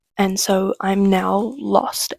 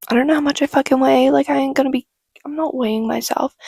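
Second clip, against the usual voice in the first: higher, quicker, mildly defiant; retold indignant refusal; 4 semitones higher, faster than usual. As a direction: act out a kid flatly refusing. Retold defiant child refusing to be weighed.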